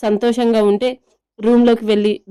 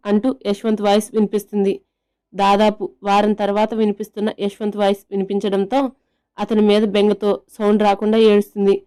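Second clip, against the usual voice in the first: ordinary delivery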